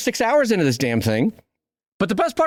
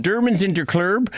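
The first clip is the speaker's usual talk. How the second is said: Swedish chef; 3 semitones higher than usual. Retold or imitated. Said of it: "as though you're the Swedish chef".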